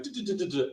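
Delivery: soft, rapid-fire "du-du-du" stutter; imitated dominoes falling. Builders going down like dominoes, imitated patter. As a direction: patter out a quiet toppling row. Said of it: "like dominoes".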